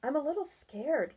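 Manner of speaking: whispered. Acted. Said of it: "Barry whispered".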